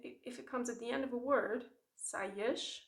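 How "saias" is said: saias ending in a sh sound, saiash; final sh sound. Shown as a demonstration. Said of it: "then you have a sh sound instead".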